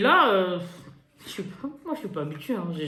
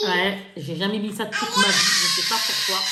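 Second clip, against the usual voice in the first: half laugh, half shout at herself; exclamation rieuse. Real, not acted. S'exclame devant le maquillage. (s'écrie en riant, incrédule)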